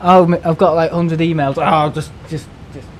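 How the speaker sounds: high, drawled mock of idle staff; lazy staff mockery. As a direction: lampoon the lazy people. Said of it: "people lying there, going".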